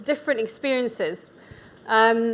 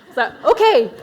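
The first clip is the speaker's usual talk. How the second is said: laughing it off, louder; amused laugh through the words; 3 semitones higher, 8 dB louder than usual. Real, not acted. Laughing at her own mistake.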